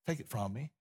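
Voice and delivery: very soft pleading whisper-like prayer; hushed prayer. Retold or imitated. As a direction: plead softly to the Father. Jesus praying in Gethsemane.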